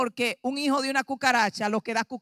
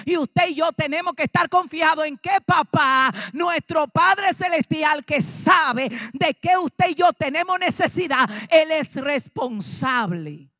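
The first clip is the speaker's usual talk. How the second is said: fervent preaching; 2 semitones higher than usual. Acted. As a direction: drive it home to the congregation. Preaching climax to congregation. (predicando con fervor, más fuerte)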